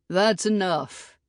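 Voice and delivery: slow, firm call across the clearing. A narrator's reading. Jed calling across the clearing to stop Red Moon, firm. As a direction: cut him off firmly. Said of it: "Jed called out to Red Moon".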